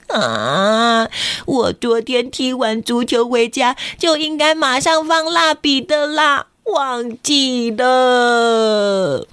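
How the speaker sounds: drawn-out regretful whine; sad. Acted. Kenta sad he forgot.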